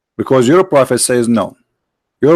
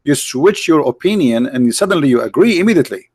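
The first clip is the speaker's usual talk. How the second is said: heated challenge; 4 semitones higher than usual. Real, not acted. Confronting opponent about switched opinion.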